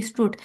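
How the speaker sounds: स्ट्रूट said with a long oo; स्ट्रूट like "stroot"; long oo vowel. Shown as a demonstration. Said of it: "spelling बनेंगे S T R double O T". (स्ट्रूट में लंबी ऊ)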